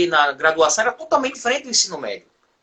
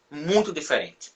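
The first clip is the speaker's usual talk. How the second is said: softer emphatic repeat; 5 semitones lower, 7 dB quieter, slower than usual. Real, not acted. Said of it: "repeats for emphasis".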